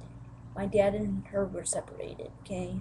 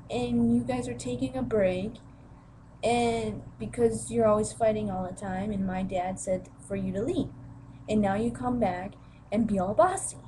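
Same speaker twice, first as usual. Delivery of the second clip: louder, defiant comeback; teen snapping back at stepmother, louder; retold angry retort; 2 semitones higher, 4 dB louder than usual. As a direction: push back hard at her. Arguing with stepmother.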